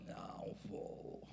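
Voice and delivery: slow, whispered, sulking no; a moody husband's whispered refusal; sulky whispered refusal. Retold or imitated. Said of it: "Aí você fala".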